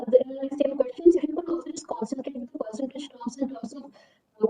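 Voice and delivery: ordinary delivery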